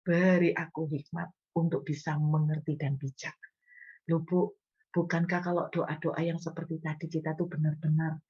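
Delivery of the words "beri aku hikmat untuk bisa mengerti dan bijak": gentle prayer. Shown as a demonstration. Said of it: "Kenapa ndak doa begini".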